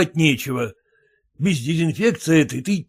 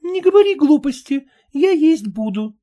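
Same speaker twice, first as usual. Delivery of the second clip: high, louder wife shout; 11 semitones higher, 4 dB louder than usual. Acted. Wife insisting she'll eat, high loud shout. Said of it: "крикнула жена".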